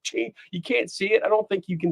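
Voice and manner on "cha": mock excitement. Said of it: "I was like".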